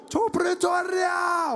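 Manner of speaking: very high, drawn-out rally shout; long stretched mass chant; crowd response. Retold or imitated. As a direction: answer as a roaring crowd of supporters. Crowd answers the rally leader.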